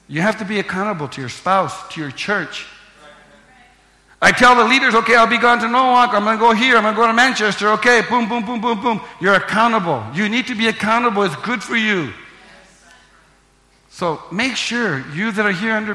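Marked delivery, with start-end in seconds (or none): 4.2-11.2 loud, rising preacher's cadence; preaching at full force. Real, not acted. Pastor exhorting his church, loud and fervent. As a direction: pound the words home to the congregation.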